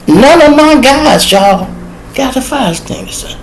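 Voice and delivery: can't believe what you're seeing; outraged disbelief. Real, not acted. Telling the crowd nobody brought an extinguisher, high outraged disbelief.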